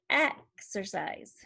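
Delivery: slow "exercise", its "eh" start set apart; short E. Shown as a demonstration. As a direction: break "exercise" after the opening short E. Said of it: "the short sound is".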